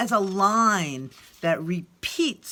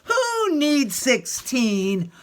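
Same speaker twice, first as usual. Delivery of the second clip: sulky whine; 4 semitones higher, 4 dB louder, much slower than usual. Acted. Child sulking at teacher.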